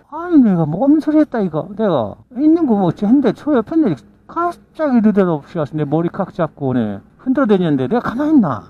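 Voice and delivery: loud, high indignant protest; heated self-defense. Retold or imitated. Woman yells her side at the fathers, loud and high. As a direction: fire back, outraged.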